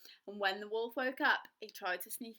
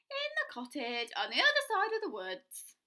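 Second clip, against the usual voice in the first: put-on high, louder trusting little girl; innocent girl; 10 semitones higher, 7 dB louder than usual. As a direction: answer the wolf sweetly. Girl answers wolf.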